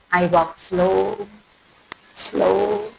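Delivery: slow demo. Shown as a demonstration. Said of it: "slow like that".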